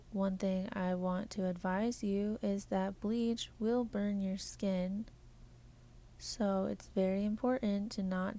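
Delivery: even, measured robotic delivery. Acted. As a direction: talk like a polite robot. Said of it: "I'm done talking like a robot".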